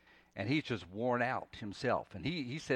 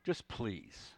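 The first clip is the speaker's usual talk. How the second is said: low, soft, defeated prayer; weary longing; 4 semitones lower, 7 dB quieter, slower than usual. Acted. Any of us at the end, praying wearily to the Lord. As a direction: let each phrase drop away, utterly spent. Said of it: "we get the same weary longing".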